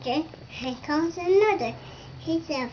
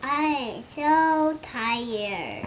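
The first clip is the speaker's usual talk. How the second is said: tired sigh; slower than usual. Acted. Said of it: "the rusty old engine sighed".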